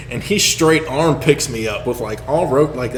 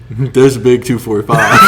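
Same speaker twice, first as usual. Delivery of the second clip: laughing exclamation; 6 dB louder than usual. Retold or imitated. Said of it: "and I'm like".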